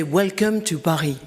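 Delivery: light put-on French accent in English. Shown as a demonstration. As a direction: greet them with a touch of French accent. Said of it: "I can put on a French accent".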